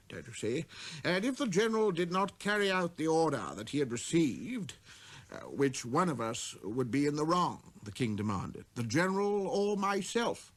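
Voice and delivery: proud king summoning a visitor; king's command. Acted. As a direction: call him closer with pride. Voices the king.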